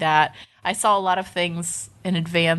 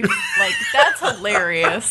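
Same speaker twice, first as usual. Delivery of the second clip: laughing; 3 semitones higher, slower than usual. Real, not acted. Laughing while telling.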